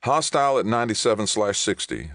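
high, urgent callout; sudden interjection. A narrator's reading. Navigator alerts captain to hostile ship, sudden and urgent. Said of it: "the navigator interjected suddenly".

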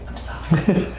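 choked-up, loud burst; tearful apology. Real, not acted. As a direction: apologise through real tears. Wife overcome, apologises for crying.

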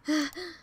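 winded heavy exhale; heavy breathing. Acted. Runner following the cat, breathing heavily. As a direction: let out a tired breath. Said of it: "I breathed heavily".

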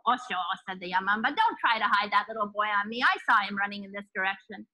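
a hint of a threatening hag; mountain witch. Witch confronts priest.

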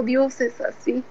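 tender smile. Retold or imitated. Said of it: "con una sonrisa tan tierna".

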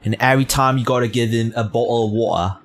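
put-on British accent, quick; mock British accent. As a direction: rattle it off in an imitation British accent. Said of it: "Does he talk like that?".

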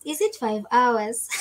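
slow Swahili accent, breaking into a laugh; playful put-on Swahili accent. Shown as a demonstration. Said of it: "I went into my Swahili accent".

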